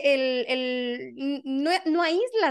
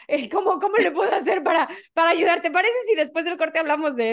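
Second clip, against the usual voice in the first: laughing; 4 semitones higher, 4 dB louder than usual. Real, not acted. Host laughs while asking.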